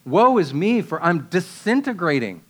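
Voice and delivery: mildly dramatic, overwhelmed lament; completely overwhelmed. Acted. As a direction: cry out as if coming apart, then sink. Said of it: "completely overwhelmed".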